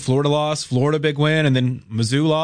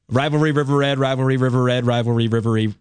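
backwards tongue-twister attempt. Shown as a demonstration. Co-host trying the rivalry name backwards on request, tongue-twister attempt. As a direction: run the reversed name round in a loop. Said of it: "someone asked me if I could do it backwards".

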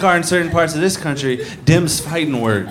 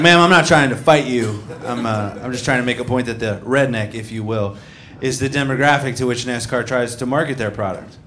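calm explaining; 4 semitones lower than usual. Retold or imitated. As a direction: talk her down patiently. Comic calmly explains to heckler.

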